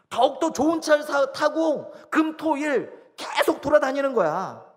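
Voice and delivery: high, loud preaching voice; full-force preaching. Acted. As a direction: drive each point home, pitched high. (목소리를 높여 힘주어 설교하듯)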